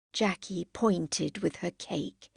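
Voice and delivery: ordinary delivery, nothing marked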